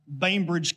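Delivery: "Bainbridge" with a long AY, as in rain; BAIN pronunciation. Shown as a demonstration. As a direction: say "Bainbridge" slowly, first syllable like "bane". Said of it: "Sorry, Bain-, Banbridge?".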